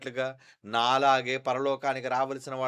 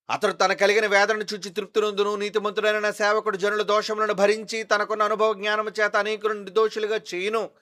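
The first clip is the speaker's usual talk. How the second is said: loud scripture reading; 7 semitones higher, 7 dB louder than usual. Acted. Pastor reading Isaiah to his congregation, loud preaching. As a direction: proclaim each line to the back row. Pastor reads verse eleven.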